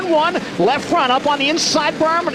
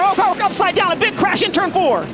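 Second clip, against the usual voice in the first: sudden shocked outcry, pitched up; alarmed crash call; 3 semitones higher than usual. Real, not acted. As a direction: react as the car flips. Crash called live.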